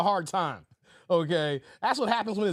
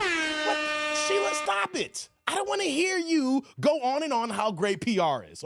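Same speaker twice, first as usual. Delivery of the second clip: mock exasperation; 6 semitones higher than usual. Mock scolding of bragging Sheila.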